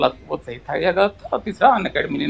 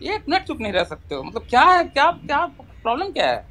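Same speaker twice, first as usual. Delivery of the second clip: high, plaintive protest; aggrieved whine, pitched up; near-tearful exasperation; 8 semitones higher than usual. Real, not acted. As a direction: sound close to crying with frustration. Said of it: "क्योंकि आपकी आवाज ऐसी आ रही है".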